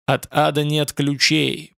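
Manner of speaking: slow heavy thundering voice; heavy booming voice. Acted. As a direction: boom it out slowly. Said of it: "прогрохотал тяжёлый голос". (тяжёлый грохочущий голос)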